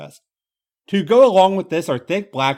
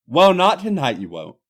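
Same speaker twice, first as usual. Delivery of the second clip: firm; 2 semitones higher, 4 dB louder than usual. Acted. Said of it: "he says firmly".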